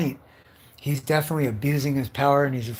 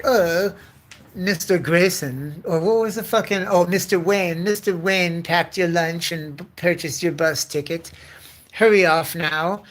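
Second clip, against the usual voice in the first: lightly voiced prim butler, a bit louder; a hint of a fussy butler shooing someone out; 4 semitones higher, 4 dB louder than usual. Butler tells Bill's guest his bus is booked, prim. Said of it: "And then the butler's there, like".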